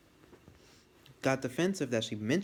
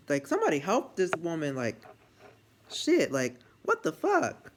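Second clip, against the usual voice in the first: alarmed reaction; 5 semitones higher, 4 dB louder than usual. Retold or imitated. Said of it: "I'm like".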